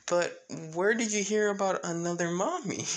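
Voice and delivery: mildly acted questioning mom; Toga. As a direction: ask the child in a lifted voice. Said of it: "pretty much Toga saying".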